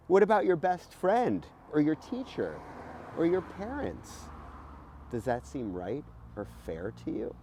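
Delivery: put-on lively, bright read-aloud for kids; reading to children. Host reading a voting book to kids, lively read-aloud. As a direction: read it like a storybook to young listeners.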